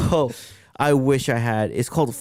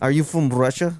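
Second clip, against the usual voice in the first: lightly put-on Russian accent; mock Russian accent. Someone asks about the new accent, mock Russian accent. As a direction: ask it in an attempted Russian accent. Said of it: "like a Russian accent".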